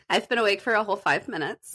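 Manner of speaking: just-woken-up morning voice. Real, not acted. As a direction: still sleepy, fresh out of bed. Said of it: "You have a bit of a Phoebe voice this morning".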